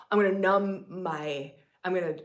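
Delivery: ordinary talk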